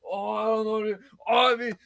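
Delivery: put-on high-pitched drunken whine; imitated drunk. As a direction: play a drunk friend begging off. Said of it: "dude, he was so drunk".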